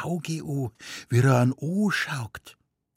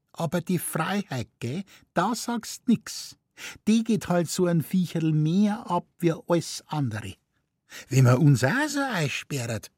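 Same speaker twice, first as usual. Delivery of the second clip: higher, sentimental Bavarian wife; nagging wife; 8 semitones higher than usual. A narrator's reading. Wife to husband at the lion cage, wistful and higher. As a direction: plead the caged lion's longing.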